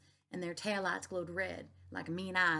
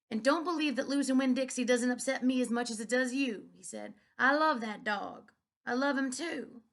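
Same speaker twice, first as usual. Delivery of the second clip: higher, louder, crying voice; tearful father; 5 semitones higher, 6 dB louder than usual. A narrator's reading. Preacher crying over the lost dog to his daughter. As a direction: speak through tears. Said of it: "He started to cry".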